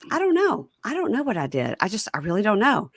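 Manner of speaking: put-on squeaky clueless boyfriend; whiny inmate voice. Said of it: "He goes".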